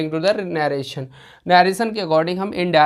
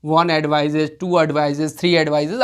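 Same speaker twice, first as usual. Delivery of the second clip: slow counting demo; 2 semitones lower, much slower than usual. Shown as a demonstration. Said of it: "types of".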